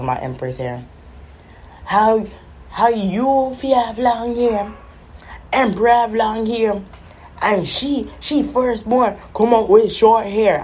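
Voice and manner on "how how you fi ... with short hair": high, slow Caribbean patois mom; imitating Caribbean mom, higher; mom's Caribbean accent. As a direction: lecture like a Caribbean mother. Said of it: "catch her voice, how she be talking".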